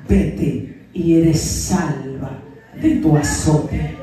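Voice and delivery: low, slow and solemn, drawn out; slow deep Jesus blessing. Acted. Jesus sends the healed woman away, slow and solemn. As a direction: bestow it like a blessing.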